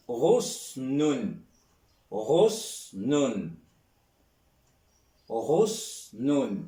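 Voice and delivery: Rosnun said slowly with a throaty ghain and a falling end; Arabic word demo. Shown as a demonstration. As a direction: spell out Rosnun syllable by syllable. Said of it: "Un point sur le ghain".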